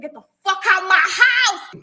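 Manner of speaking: mock shout. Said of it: "She said".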